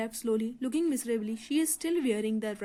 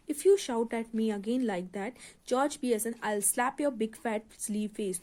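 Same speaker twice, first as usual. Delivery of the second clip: savagely; much slower than usual. Acted. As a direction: threaten him furiously. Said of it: "jumping up savirajly".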